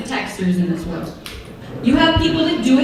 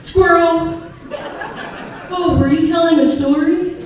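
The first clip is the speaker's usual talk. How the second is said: Doug the dog; 4 semitones higher, 4 dB louder than usual. Retold or imitated. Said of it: "like Doug from the movie Up".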